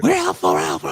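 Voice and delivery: high chirpy swarm voice; insect hive voice. Acted. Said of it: "the sound of the insect voice".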